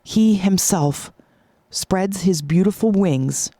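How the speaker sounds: slow, drawn-out storytelling; slow, wondrous climax with long pauses; dramatic story narration. Acted. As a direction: draw out each phrase to unveil the transformation.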